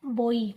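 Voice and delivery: बॉय as bo-ee, round o gliding to i; measured बॉय, falling into the ee glide; correct pronunciation demo. Shown as a demonstration. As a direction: repeat बॉय carefully with a rounded oi. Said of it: "लेकिन इसको बोलते हैं बॉय".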